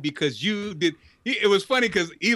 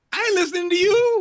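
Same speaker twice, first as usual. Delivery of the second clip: dismissive tough guy; 13 semitones higher, 5 dB louder than usual. Retold or imitated. Voicing the handler ignoring Olivia.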